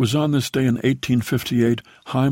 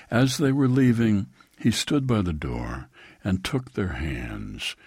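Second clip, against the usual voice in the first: poem reading; 2 semitones lower than usual. A narrator's reading. Reads a poem aloud.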